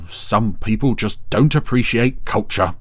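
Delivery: mildly haughty, measured reproach; haughty Dougal. Acted. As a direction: say it with a touch of offended superiority. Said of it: "he said haughtily".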